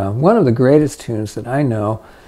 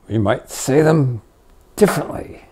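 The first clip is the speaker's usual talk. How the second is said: whispered ending. Shown as a demonstration. Teacher demoing a whispered version of the phrase. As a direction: drop to a whisper on differently.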